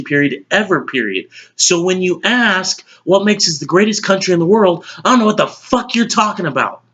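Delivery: lightly acted, exasperated news anchor rant; Will McAvoy. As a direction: reel off the argument with mounting indignation. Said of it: "as news anchor Will McAvoy".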